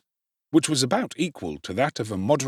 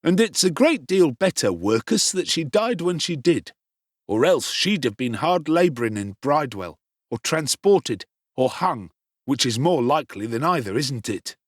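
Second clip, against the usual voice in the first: bully Noah; 4 semitones higher than usual. Acted. Noah continues taunting.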